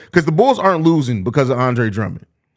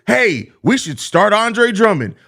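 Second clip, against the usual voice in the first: much higher, slow mock fan suggestion; 6 semitones higher, slower than usual. Streamer imitates a fan wanting Drummond started, mocking. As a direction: parody a fan pitching a bad idea, slowly. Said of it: "Or it's".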